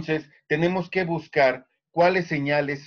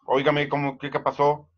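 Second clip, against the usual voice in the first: a lightly firm, demanding question; a hint of firm annoyance, barely raised. Shown as a demonstration. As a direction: sound a bit stern, like demanding an answer. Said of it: "Si B te habla así en tono firme".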